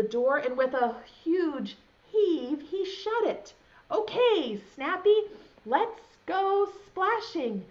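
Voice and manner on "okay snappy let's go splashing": high eager call; eager cry. Acted. Newton calling to Snappy, eager to splash. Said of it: "Newton cried".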